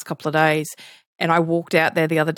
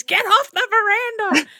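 high sharp shoo. Retold or imitated. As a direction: shoo the birds off, clapping. Shooing peacocks, clapping hands.

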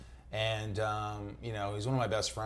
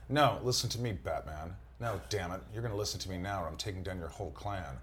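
light, clipped Spacey threat, dropping softer; smooth quiet menace like Spacey; Kevin Spacey; 2 semitones lower, 4 dB quieter than usual. Acted. Voicing Deadshot to Batman as Spacey, lightly voiced menace. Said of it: "do your Kevin Spacey for Deadshot".

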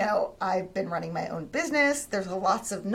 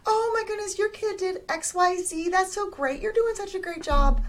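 much higher, sweet complimenting voice; gushing friend; 10 semitones higher than usual. Retold or imitated. Friend praising a mom's parenting in a sweet high voice. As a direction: coo praise at a mom.

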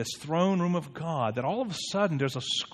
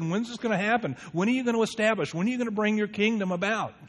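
impatient disciples; 4 semitones higher, faster than usual. Retold or imitated.

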